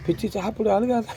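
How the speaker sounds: soft, high-pitched coaxing; gentle coaxing. Real, not acted. Urging a crying woman to eat, gently coaxing.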